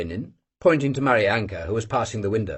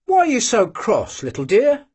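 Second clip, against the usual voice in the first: good-natured; 10 semitones higher than usual. A narrator's reading. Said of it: "he said good-naturedly".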